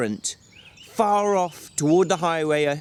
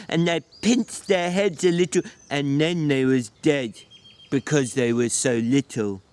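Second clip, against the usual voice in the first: put-on childlike Lennie voice. Lennie explains.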